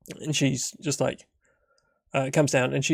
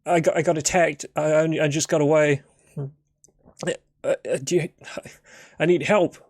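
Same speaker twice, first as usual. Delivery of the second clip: a mild hint of a frightened stranger, raised and stumbling; shaken stammer; 3 semitones higher than usual. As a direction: stammer out his story, a little shaken. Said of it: "And he's".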